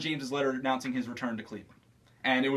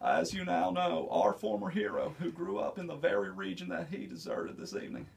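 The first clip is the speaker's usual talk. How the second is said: Bill Clinton impression; 6 dB quieter than usual. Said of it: "Bill Clinton".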